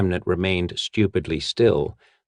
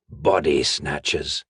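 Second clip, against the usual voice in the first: gasped; 3 semitones lower, slower than usual. Acted. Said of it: "he gasped".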